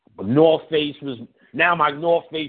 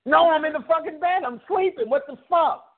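mock indignant; 12 semitones higher than usual. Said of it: "retold phone argument".

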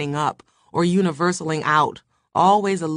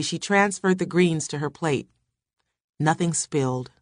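ordinary delivery, nothing marked

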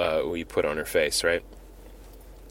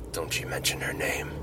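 hissed threat; 4 semitones lower, 9 dB quieter than usual. Retold or imitated. Tony's threat voiced in the retelling.

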